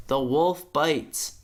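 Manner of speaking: slow, limp English dub reading; flat dub. Retold or imitated. Mocking the dull English dub to a friend, slow and limp. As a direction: drain all intensity from it. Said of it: "the English dub, they just lose all intensity".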